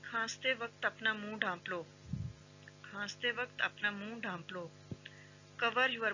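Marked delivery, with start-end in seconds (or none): none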